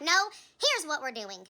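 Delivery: slow, emphatic retold angry comeback; understated anger, each word leaned on; angry retort. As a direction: push back firmly, drawing out the words. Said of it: "I was very angry in that moment".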